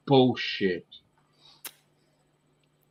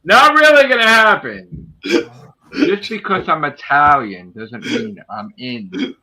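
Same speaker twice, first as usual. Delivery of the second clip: loud, high outburst easing into slower protest; angry; 5 semitones higher, 9 dB louder than usual. Real, not acted. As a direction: shout it angrily, then slow down. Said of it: "You are an angry man".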